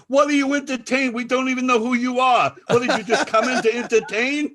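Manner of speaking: very high, loud mock outrage; hammed-up heckling; indignant challenge. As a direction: demand answers of an unwanted guest. Retold guests challenging the entertainer.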